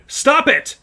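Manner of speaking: high, loud cry to stop; shout. Acted. Jill and Tracy yelling at the attacker, loud shout. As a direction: yell out in protest. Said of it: "both shouted".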